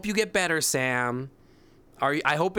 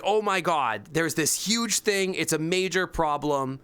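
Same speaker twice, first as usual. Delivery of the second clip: higher, hammed-up office panic; mock panicked coworkers; 4 semitones higher than usual. Retelling coworkers freaking out at work, mocking panic. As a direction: mimic their overblown alarm. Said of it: "They're like".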